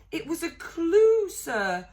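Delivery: high, loud squeaky elf voice; eager elf. A narrator's reading. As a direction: blurt it out as obvious. Dobby explaining eagerly.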